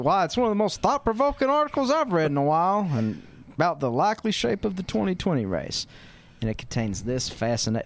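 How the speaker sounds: stiff, stagey op-ed read; a hint of a newspaper columnist reading aloud. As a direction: act out a prim columnist dialogue, lightly. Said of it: "scene and action".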